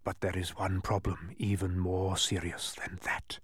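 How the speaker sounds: soft, breath-only whisper; ominous whisper. A narrator's reading. Mathematician hinting at a worse problem, ominous whisper. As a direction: whisper it with foreboding. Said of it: "he whispered ominously".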